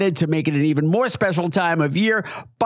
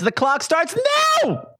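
high, announcing the timer; game show countdown; 12 semitones higher than usual. Acted. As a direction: start the clock like a quiz host. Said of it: "give me a nice, tight thirty-second plot summary".

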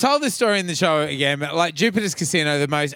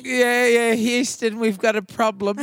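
mock dramatic announcement; 6 semitones higher, slower than usual. Mock announcement of Houston problem.

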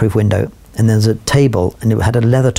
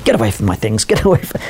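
mock indignant rebuff. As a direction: mimic someone shooing a helper off. Retelling Thatcher warding off his help.

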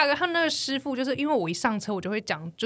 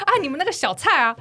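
chatty taxi driver; 8 semitones higher, 5 dB louder than usual. Retold or imitated. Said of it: "他说".

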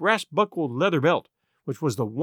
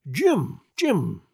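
mildly delighted repetition, first one pitched up; pleased. A narrator's reading. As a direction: savour the name, pleased. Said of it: "quite pleased apparently".

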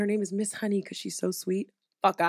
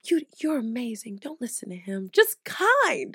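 gentle and soft, the kind teacher. Retold or imitated. Miss Honey reassuring Matilda, softly and gently. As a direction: soothe her like a tender teacher. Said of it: "she would be like".

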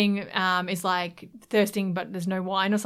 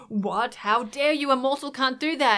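higher-pitched, mildly outraged retelling; mock indignation; 4 semitones higher than usual. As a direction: imitate an offended little creature, lightly indignant. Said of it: "He's so pissed".

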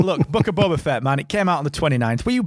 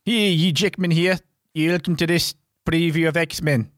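mock Hugh Jackman; 3 semitones higher than usual. Host imitating the actor introducing a trailer, mock accent. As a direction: do a hammed-up celebrity intro voice. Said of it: "Don't know where he's from".

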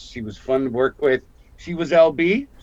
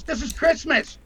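flirty co-star; 13 semitones higher than usual. Retold or imitated. Lorraine's flirting line retold.

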